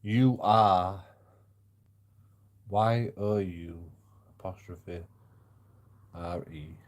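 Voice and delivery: letters named one by one, slowly; spelling it out. Shown as a demonstration. Spelling a viewer's message letter by letter. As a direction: spell out each letter of the chat name. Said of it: "It's Barry".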